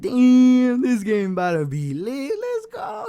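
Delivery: loud, high-pitched excited yell; hyped outburst. Retold or imitated. Player reliving the game's action-packed opening, hyped shout.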